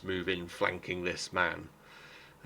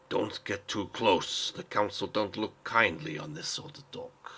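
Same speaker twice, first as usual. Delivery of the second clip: put-on elderly bystander. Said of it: "he's an elderly sort of man".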